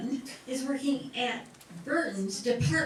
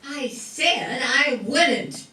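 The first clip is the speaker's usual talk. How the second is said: exasperated; 3 semitones lower, 3 dB louder, slower than usual. Acted. Sister annoyed by teasing.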